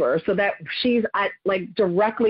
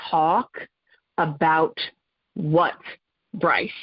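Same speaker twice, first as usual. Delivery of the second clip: slow, lower, each word spaced out; a mom reining in anger at her daughter; controlled fury; 4 semitones lower, much slower than usual. Retold or imitated. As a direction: hold the rage down and bite off each word. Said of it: "If I explode, this is not gonna be good".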